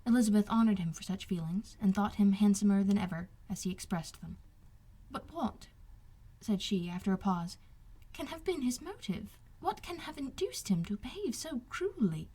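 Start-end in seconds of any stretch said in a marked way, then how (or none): 5.1-12.3 put-on puzzled young lady. Elizabeth voiced higher, softer.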